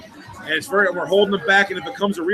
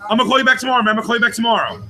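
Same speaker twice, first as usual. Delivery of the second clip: hurried, slightly raised mock panic; retold panic; 3 semitones higher, much faster than usual. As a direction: rush it out as if suddenly desperate to hang up. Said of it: "I'm, like, in a panic".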